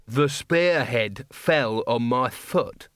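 a slow, sneering palace guard voice; a condescending guard looking down on students; gruff guard captain. Acted. Guard captain mocking the wizards' wreckage as student pranks.

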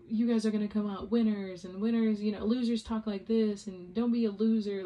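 lightly played coach-dad rallying his kids; the dad from Little Miss Sunshine, mildly hammed; motivational dad. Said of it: "and he's like".

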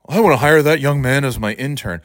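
lightly voiced congressman imitation; a hint of a mocked official; mock politician. Host imitating a congressman hiring an intern, mocking.

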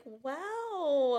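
wide-eyed, drawn-out wow; sincere wow. Retold or imitated. Diner reacts to plates brought to the table, sincerely wowed. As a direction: savour it in hushed wonder, playfully. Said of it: "like, so sincerely".

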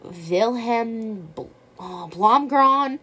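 slow, high drawling read; reading names while stoned; stoner. Real, not acted. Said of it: "I'm so high right now".

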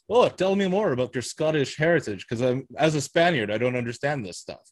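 a hint of Connery lecturing the Scotsman; Sean Connery quote. A hint of a Scottish Spaniard quizzing the Scotsman. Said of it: "the Scotsman going".

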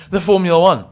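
rising revved up car voice. Shown as a demonstration. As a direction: say it like an engine revving. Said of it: "my, uh, car voice".

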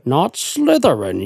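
lightly voiced whispered plea to the hat; a slow, half-joking imitated plea; imitating Harry's plea. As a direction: beg the hat, a hint of Harry. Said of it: "That's pretty good".

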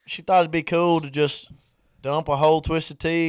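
light country twang; country accent. Real, not acted. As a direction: tell it with a country lilt. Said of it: "You do not have to get country".

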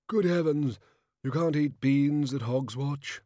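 high, loud, drawn-out kingly bluster; jovial overbearing king. A narrator's reading. King scolding peasant over his beans, heartily overbearing. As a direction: boom it out like a hearty monarch.

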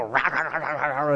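low grunting "rah rah" like a movie barbarian; half-laughing caveman grunts; mock caveman grunts. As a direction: grunt it out like a caveman chewing meat. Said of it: "and they go".

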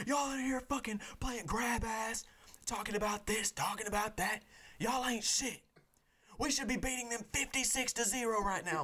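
high, ranting coach chewing out players; mock coach rant scolding players at halftime; angry coach rant. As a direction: tear into the team like a furious coach.

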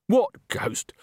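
hushed unvoiced whisper. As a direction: breathe it like a secret. Frightened backstage gossip.

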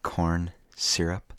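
put-on slow, lingering creepy old man. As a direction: drag each word out like a creepy old man. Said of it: "creepy old man voice".

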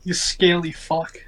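put-on slow mumbled insult from a passed-out drunk; unconscious drunken mumble. Drunk half-elf insulting someone in his sleep, slow mumble. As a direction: mumble it slowly, as if out cold. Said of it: "in, unconsciously".

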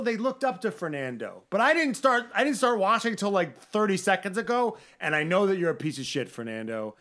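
heated rant. Real, not acted. Ranting straight at Fernando.

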